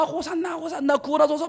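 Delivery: bright cheering crowd shout; excited cheering. Retold or imitated. Crowd cheering Jesus acted out. (환호하는 군중처럼)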